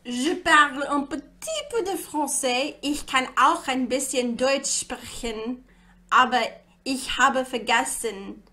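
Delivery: halting foreign phrases, rough accent; clumsy French and German. Real, not acted. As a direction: speak schoolbook French and German badly. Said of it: "My accent was horrible there".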